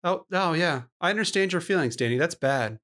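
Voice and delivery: imitating an eerily calm reassurance; zen-like calm. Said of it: "weird zen-like calm".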